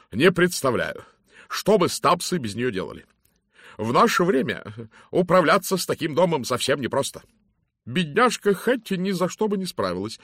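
loud, hearty lady's greeting; booming matron. Acted. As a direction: hail him like a bossy matron. Mrs Masterton lays out the matter. (громкий зычный голос дамы)

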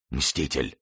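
hushed dying word; whispered. A narrator's reading. Shot Winter falls into Athos's arms, dying whisper. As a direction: let it out softly, with failing strength. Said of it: "прошептав".

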